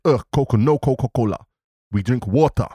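mock Portuguese accent; broken English in a put-on Portuguese accent; Cristiano Ronaldo. Host retelling the refusal of the drink, in mock Portuguese accent. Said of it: "you've got Cristiano Ronaldo's accent".

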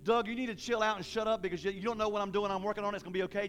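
easygoing, everyday talk, settling down at the end; casual modern paraphrase. Acted. God talking to Doug in today's language, casual. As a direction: lightly voice God telling you to chill. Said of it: "I can just see in today's language".

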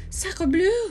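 high, very loud outburst; exasperated exclamation. A narrator's reading. Pierre comes out of the snow, exasperated. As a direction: burst out with the oath. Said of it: "Pierre sputtered and wiped the snow".

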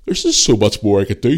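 yawning while talking; words stretched by a yawn. Real, not acted. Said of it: "Sorry for yawning".

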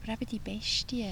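ominous mock whisper. Whispering about the beast to tease her friend. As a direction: whisper it like a secret.

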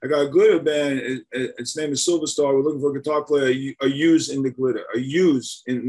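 lightly imitating a Jersey hustler; a hint of a Sopranos-style guy; Jersey tough guy. Caller pitching his glitter band, mild Jersey accent. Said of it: "The guy sounded like Sylvester Stallone".

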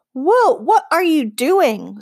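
slow, high, breathless whisper of alarm. Acted. Boy whispering in alarm as the girl walks toward the bear. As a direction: hiss it in panic at her.

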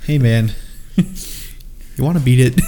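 slow laughing mock come-on; mock invitation, laughing. Friend imitates one Beatle to the other, laughing slowly. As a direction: drawl it out while cracking up.

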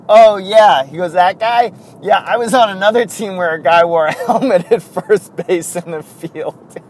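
put-on loud southern accent, amused; Rickey Henderson. Teller quotes oblivious Rickey to listeners, light southern impersonation. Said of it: "That's why I do the southern impersonation".

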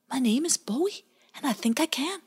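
high, proud little otter voice; a baby sure of himself; confident baby otter. Acted. Bowie introduces himself to Pie Jam, high confident otter. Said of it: "with great confidence".

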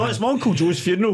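deadpan retort. Retold or imitated. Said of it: "and I went".

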